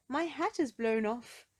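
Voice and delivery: high voice on the phone; a small caller, worried; Mister Small. Acted. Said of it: "said a voice in the other end".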